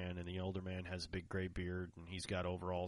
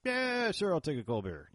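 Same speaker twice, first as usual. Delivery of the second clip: eager acceptance; 10 semitones higher, 8 dB louder than usual. Retold or imitated. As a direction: jump at the offer, playfully retold. Retells eagerly accepting a beer.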